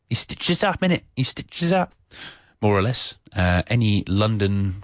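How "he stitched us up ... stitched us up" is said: higher-pitched, hammed-up Cockney with dropped h. Shown as a demonstration. Teacher repeating the example with innit, exaggerated Cockney. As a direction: ham up the London Cockney, no h on "He". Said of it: "In the Cockney, you say".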